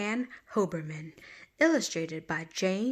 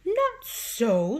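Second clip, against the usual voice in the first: woodchuck sniff; 5 semitones higher, 5 dB louder than usual. Acted. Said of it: "sniffed the woodchuck".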